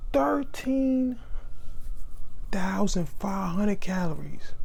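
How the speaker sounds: hushed, awed whisper; frat bro. Real, not acted. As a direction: whisper the number in disbelief. Awed at calorie count.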